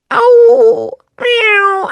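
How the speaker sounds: very high, loud "oh" then a squeaky meow; mock cat meow. Shown as a demonstration. Host answering her own riddle as a cat, high meow.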